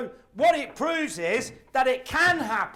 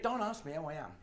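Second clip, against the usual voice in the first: low, soft thinking aloud; a muttered private dread; quiet inner thought; 6 semitones lower, 7 dB quieter, faster than usual. Retold or imitated.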